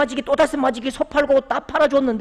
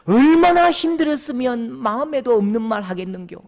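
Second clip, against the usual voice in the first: louder, pleading dialect mother; mother's tearful plea to her drunk son; mother embracing; 3 semitones higher, 5 dB louder than usual. Retold or imitated. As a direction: hold him and plead for understanding. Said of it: "안으면서 하는 말이".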